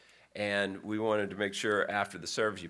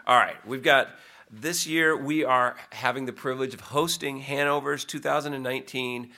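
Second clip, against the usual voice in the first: raised, punchy announcer-style pitch; selling it up; 4 semitones higher, 4 dB louder than usual. Pretend. Pastor promoting the church's active aging event, selling it up. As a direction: talk up the event with a lift. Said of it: "try to sell it up good".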